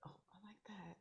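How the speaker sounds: whispered aside; whispering. Real, not acted. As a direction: breathe it, no voice. Host reacts softly off-mic.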